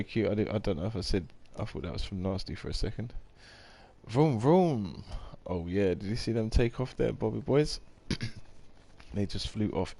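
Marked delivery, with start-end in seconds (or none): 4.1-5.0 loud high playful engine vroom; playful car noise to the chat. Pretend. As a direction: rev it up like a toy car, louder and higher. Imitating cars taking off.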